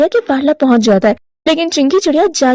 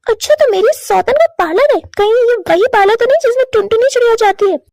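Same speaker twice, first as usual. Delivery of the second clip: higher, pointed jealous questioning; jealous wife; 7 semitones higher than usual. Acted. Chinki jealous of her husband's ex, higher pointed voice. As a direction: needle him about the rival.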